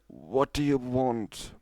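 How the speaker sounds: slow, grumpy moan at the door; annoyed mare woken at bedtime, slow moaning; grumbling moan. A narrator's reading. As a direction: drag it out like a sleepy grumble. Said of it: "moaning a".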